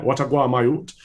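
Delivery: imitated Jamaican patois; Jamaican accent. Guest quoting father, playful Jamaican accent. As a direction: mimic a Jamaican dad's greeting in patois. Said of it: "my father's family are from Jamaica".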